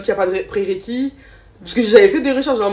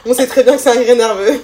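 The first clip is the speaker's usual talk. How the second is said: laughing while talking; giggling through the words; nervous laugh; 3 semitones higher, 7 dB louder than usual. Real, not acted.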